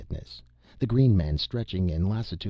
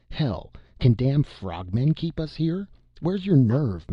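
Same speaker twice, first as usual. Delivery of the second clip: rousing shout; 7 semitones higher, 3 dB louder than usual. Acted. Rousing a despairing comrade.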